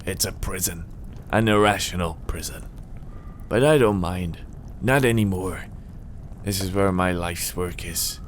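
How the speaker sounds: lightly voiced old hermit; old man, quietening toward the end; resigned old man. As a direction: play a weary recluse showing his life's work. Reader plays Donald.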